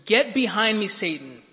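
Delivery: sharp, commanding retold rebuke; stern rebuke. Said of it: "he rebukes him".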